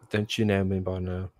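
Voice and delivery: lightly put-on, bad British accent; terrible British accent. Host jokingly attempting British to his viewers, bad British accent. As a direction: try a British accent and do it badly. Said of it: "my terrible British accent".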